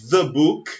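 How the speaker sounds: "the" said as "də" before book; short "də" with tongue between teeth; the before consonant. Shown as a demonstration. Teacher modelling "the" before a consonant. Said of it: "Então você fala".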